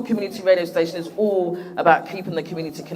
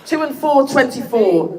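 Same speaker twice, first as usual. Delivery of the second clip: bingo caller; 4 semitones higher than usual. Pretend. Bingo-style number call.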